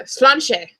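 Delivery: sláinte said slowly as SLAHN-chuh; drawn-out sláinte with a nasal a; careful Gaelic sláinte; Gaelic toast. Shown as a demonstration. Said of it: "That's how you pronounce it".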